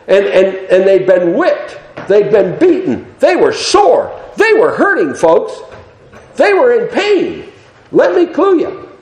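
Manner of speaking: high-pitched, emphatic preacher's cry; impassioned preaching. Acted. Preacher telling the congregation of the beaten prisoners, impassioned. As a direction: drive home each point with rising fervor.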